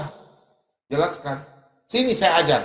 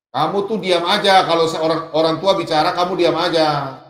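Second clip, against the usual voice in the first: louder elder's telling-off; retold scolding; 5 dB louder than usual. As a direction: lecture the youngster in an imitated cross voice. Acted scolding by the older man.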